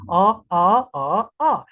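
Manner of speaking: "ah" said four times, once in each Chinese tone. Shown as a demonstration. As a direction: sing "ah" through the four Mandarin tones one by one. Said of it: "they have four accent".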